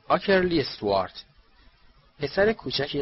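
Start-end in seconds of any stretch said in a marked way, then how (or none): 0.1-1.2 raised, higher-pitched roll call; calling out a name. A narrator's reading. Calling names from a list.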